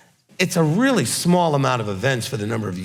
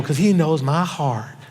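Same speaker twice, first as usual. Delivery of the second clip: slow, laughing Southern drawl on the phrase; the Southern way he usually says it, a bit slower; Southern accent; slower than usual. Shown as a demonstration. Preacher showing his usual Southern saying, in a slow, laughing Southern accent. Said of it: "'Cause I usually go".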